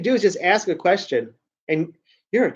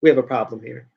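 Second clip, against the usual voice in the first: family voice; 8 semitones lower, 6 dB quieter than usual. Retold or imitated. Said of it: "they'd be like".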